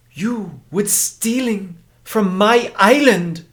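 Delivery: high, slow voice in broken English; a haughty island priestess questioning outsiders; mysterious island woman. Acted. Island woman challenges the outlanders, high and slow. Ayani accuses.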